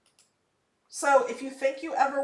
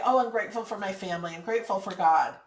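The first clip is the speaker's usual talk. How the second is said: rushed rote quote; 3 semitones lower, faster than usual. Retold or imitated. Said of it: "to not just say".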